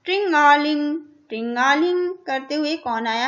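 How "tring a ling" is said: mock bicycle bell ring; sing-song bell sound for the kids. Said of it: "इस तरह से घंटी बजाते हुए".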